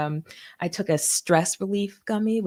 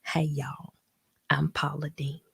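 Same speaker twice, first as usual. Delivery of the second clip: Paula Deen impression; 2 semitones lower, 4 dB quieter than usual. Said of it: "and she's like".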